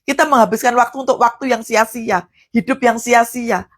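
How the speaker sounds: ordinary talk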